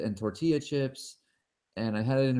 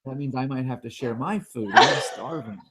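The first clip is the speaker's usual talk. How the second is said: laughing panic; 5 dB louder than usual. Retold or imitated.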